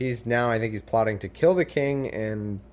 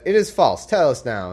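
indignant; 4 semitones higher, 6 dB louder than usual. Retold or imitated. Servants protesting.

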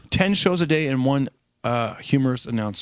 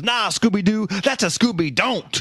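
higher, slow punchline; mock angry dad punchline; 7 semitones higher, slower than usual. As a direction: land the joke slowly. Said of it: "He goes".

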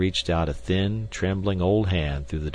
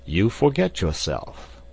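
slow, hushed warning; whispered rebuke; slower than usual. Acted. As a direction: rebuke him under the breath. Professor rebukes his friend.

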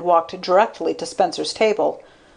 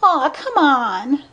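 put-on high, drawn-out girlish plea; pleading; 8 semitones higher, slower than usual. A narrator's reading. Blonde begging Spencer for criticism, high drawn-out pleading. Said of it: "she pleaded".

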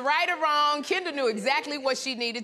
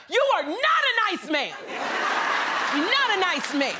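high mock scream of outrage; comically indignant raised cry; retold scream; 6 semitones higher than usual. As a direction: holler it after someone walking off, hammed up. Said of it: "I screamed out".

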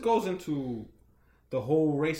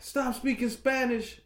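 mock racist lady; 8 semitones higher than usual. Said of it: "she started yelling at them".

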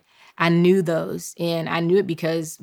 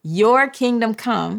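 slow call to repeat; 3 semitones higher, slower than usual. Shown as a demonstration. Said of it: "I need for you to say".

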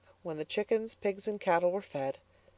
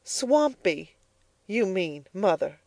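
correcting; 2 semitones higher, slower than usual. Acted. Elnora correcting her mother, pointed. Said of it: "corrected Eleanor".

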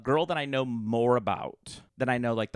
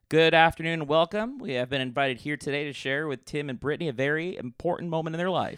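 car salesman voice; 2 semitones higher than usual. Acted. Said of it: "you sound like a car salesman".

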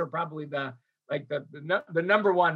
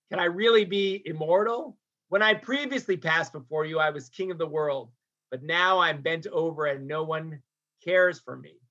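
subdued, sinking lament; understated anxious lament; deep anxiety; 3 semitones lower than usual. Retold or imitated. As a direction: voice an old leader feeling forgotten, mildly. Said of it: "this sort of deep anxiety".

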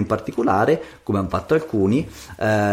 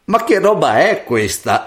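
raised pitch, amazed mother; astonished; 6 semitones higher than usual. A narrator's reading. Mother seeing pearls fall from her daughter's mouth, astonished. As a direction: exclaim in amazement. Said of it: "esclamò la madre stupefatta".

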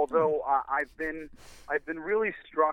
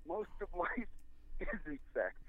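laughing; 5 semitones higher, 9 dB quieter, slower than usual. Real, not acted. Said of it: "a little clue about marriage".

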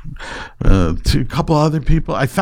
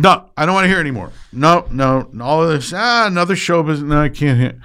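wife's retold refusal; 3 semitones higher, faster than usual. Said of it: "She said".

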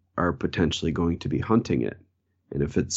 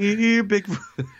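calling out; 13 semitones higher, slower than usual. Pretend. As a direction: call him like a lost dog. Calling out for Bigfoot in woods.

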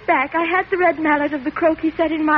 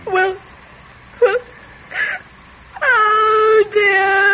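crying; 5 semitones higher, much slower than usual. Acted. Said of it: "Stop crying".

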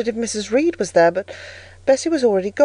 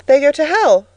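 high, louder, pat reply; ready child's answer; 6 semitones higher, 5 dB louder than usual. A narrator's reading. Girl giving her orthodox answer to the stranger, prompt and high. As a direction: recite the lesson promptly as a little girl. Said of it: "was my ready and orthodox answer".

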